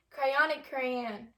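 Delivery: "crayon and crayon" slowed right down; slow demo of the two ways to say "crayon"; contrasting crayon. Shown as a demonstration. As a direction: say "crayon and crayon" slow, each one said differently. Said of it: "Say crayon and".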